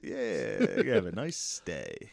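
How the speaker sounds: playing an overly sweet host; mock cheery greeting. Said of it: "I was like".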